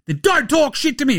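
high-pitched, indignant comeback; mock outraged retort. Clay answering the friend consoling him, mock outraged retort. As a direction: fire back as a touchy star. Acts out Clay snapping back.

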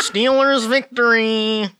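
mock gamer celebration; mock victory cry. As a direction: ham up the win. Mocking his game commentary.

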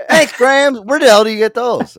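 high, loud exclamation; mock astonishment. Grandchild thanking grandma for a rude gift, mock astonishment. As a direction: play a loudly amazed grandchild.

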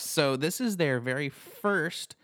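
hiccuping mid-sentence; words broken by hiccups. Real, not acted. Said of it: "excuse me, I have hiccups".

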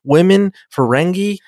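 hammed-up irritation without shouting; mock anger. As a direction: protest like a fed-up man listing his objections. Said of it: "He's very angry".

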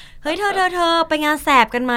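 lightly voiced casual stranger calling out; imitating a passerby. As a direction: mimic a stranger inviting a friend. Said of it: "แล้วก็คนบอกว่า".

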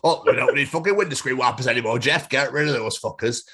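lightly voiced Yorkshire boss. Boss telling Jeff to scrap the wipers, mildly gruff Yorkshire accent. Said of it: "has been built in Yorkshire".

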